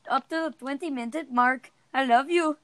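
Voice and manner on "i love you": put-on Indian accent. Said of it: "why are you saying it in an Indian accent".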